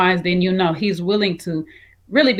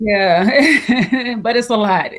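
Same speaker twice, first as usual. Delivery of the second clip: laughing through the reply; higher, amused and laughing; real laughing; 4 semitones higher, 4 dB louder, much slower than usual. Real, not acted. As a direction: let a chuckle spill into the words. Laughs while replying to co-host.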